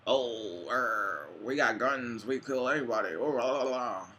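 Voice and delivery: lightly voiced blustering oaf; a hint of dopey bragging, mocking; mocking gun-proud American.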